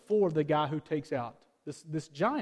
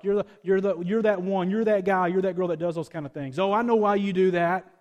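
mock accusing coworker; 7 dB louder than usual.

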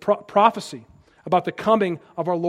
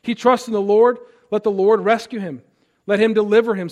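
mocking; 2 semitones higher, 5 dB louder than usual. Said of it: "They hurl insults".

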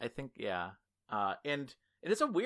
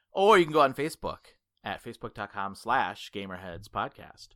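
radio voice; 3 semitones lower, 6 dB louder than usual. Acted. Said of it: "that was very radio voice of me".

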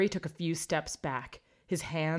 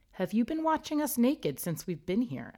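fearful; 7 semitones higher than usual. A narrator's reading. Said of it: "asked Harry fearfully".

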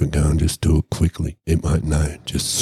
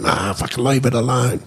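imitated pleading objection, much higher; high-pitched protest; 8 semitones higher than usual. Storyteller telling the captor to stop hurting the panda, high protest.

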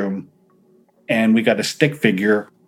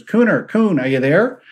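calling out; 7 semitones higher than usual. Retold or imitated. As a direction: call into the dark for him. Calling out to the spirit.

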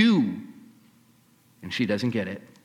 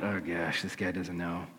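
low, much softer, private worry; anxious inner thought; 8 semitones lower, 10 dB quieter than usual. Acted. Woman silently hoping Jesus doesn't know, hushed worry. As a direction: think it to yourself, hushed.

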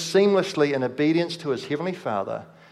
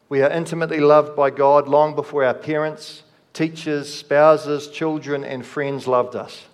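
rising sermon emphasis; 4 dB louder than usual. Real, not acted. Preacher builds to climax.

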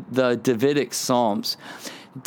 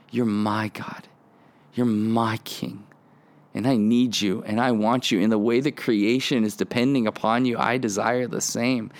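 intimate prayer; 3 semitones lower than usual. Shown as a demonstration. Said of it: "start personalizing that relationship".

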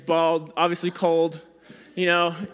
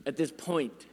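soft echo, much softer; quiet echo; 3 semitones lower, 6 dB quieter than usual. Real, not acted. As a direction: murmur it again to yourself, much softer. Echoing the aside.

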